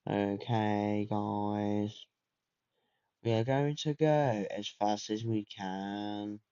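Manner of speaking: slow, drawn-out announcer voice on guys; slow hyped announcer voice. Acted. Streamer pumping up viewers before the race, slow announcer voice. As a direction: slowly talk it up like a race announcer. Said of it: "Why am I talking like that?".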